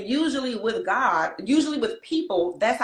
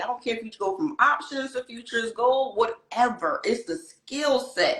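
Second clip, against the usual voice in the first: animated, higher-pitched excitement; excited; 3 semitones higher than usual. Real, not acted. Cohost hyping candle-reading skills to new listeners, excited. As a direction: let real enthusiasm lift the voice. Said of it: "This ain't even my energy unless I'm really excited".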